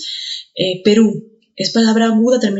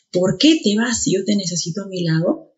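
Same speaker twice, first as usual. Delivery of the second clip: "qué" carries the main stress; teacher's emphatic "qué". Shown as a demonstration. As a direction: lean on "qué" in "por qué". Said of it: "ese qué también es tónico".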